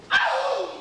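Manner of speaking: high yelp; sharp high cry; shout. Acted. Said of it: "She shouted".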